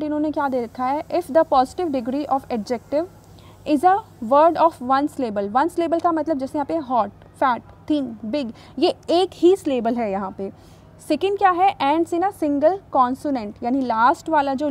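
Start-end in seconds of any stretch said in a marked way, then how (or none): 1.1-5.5 slow, deliberate dictation of the English rule; slow rule reading. Shown as a demonstration. Reads the rule aloud slowly. 11.8-13.6 slow, deliberate dictation of the English rule; slow rule reading. Shown as a demonstration. Reads rule.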